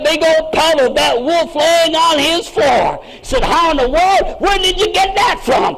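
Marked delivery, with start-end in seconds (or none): 3.4-5.8 amazed brother. Acted. Brother seeing the wolf pelt, shouting in amazement. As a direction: gasp it out in disbelief.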